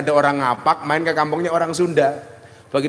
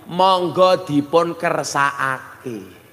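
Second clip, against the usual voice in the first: slow polite offer; much slower than usual. Shown as a demonstration. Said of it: "bahasa Jawane alus".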